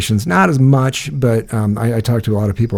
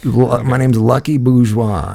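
put-on southern accent; 3 semitones higher, slower than usual. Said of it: "he had a southern thing going on".

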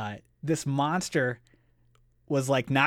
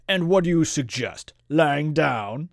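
higher, louder sarcastic monster; scornful snort; 4 semitones higher, 6 dB louder than usual. A narrator's reading. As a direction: throw the question back with loud scorn. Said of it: "snorted the monster".

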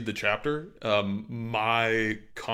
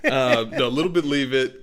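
bad British accent; 2 semitones higher, 6 dB louder than usual. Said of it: "I can't do a British accent".

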